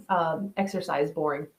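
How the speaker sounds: yawning through the words. Real, not acted. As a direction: say it mid-yawn. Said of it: "Sorry for the yawn".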